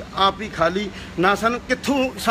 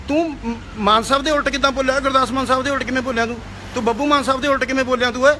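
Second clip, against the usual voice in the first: angry scolding; 3 semitones higher than usual. Real, not acted. Rebuking the singer who insulted another singer, fast and heated. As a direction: fire the questions at him, fed up.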